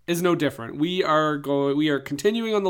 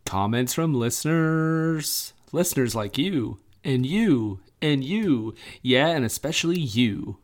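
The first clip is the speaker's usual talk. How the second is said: announcer voice; slower than usual. Acted. Segment announcement.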